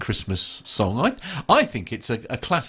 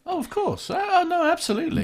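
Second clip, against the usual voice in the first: sarcastic. Acted. Sarcastic reply about warranty.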